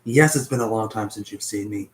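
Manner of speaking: ordinary talk, nothing marked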